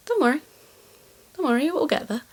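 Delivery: high, soft, soothing reassurance; reassuring aside. Pretend. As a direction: soothe them gently with a lifted voice. Comforting the stressed viewers in an aside.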